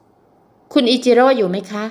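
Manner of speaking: put-on young woman calling again after no answer; calling through the door. A narrator's reading. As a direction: ask through the door if he is there. Knocking again, calling his name.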